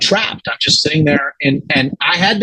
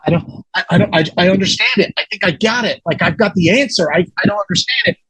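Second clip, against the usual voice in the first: quick, stammering, higher-pitched retold panic; acted panic; 4 semitones higher, faster than usual. Man overwhelmed by sudden answers, acting out panic. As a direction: tumble over the words, as if short of breath. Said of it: "I'm in a panic".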